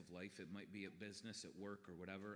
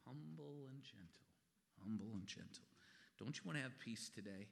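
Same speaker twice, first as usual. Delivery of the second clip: quietly. Acted. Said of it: "Jesus is quietly saying".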